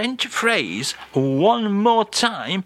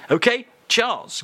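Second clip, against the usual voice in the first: bright handover; 8 semitones higher than usual. Acted. Host hands over to Charles.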